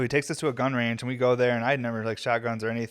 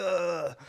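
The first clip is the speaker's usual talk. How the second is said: higher movie tough-guy grunt; action hero grunt; 6 semitones higher than usual. Retold or imitated. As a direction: grunt like Rambo with a big gun. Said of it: "impersonating people from movies like Terminator and fucking Rambo".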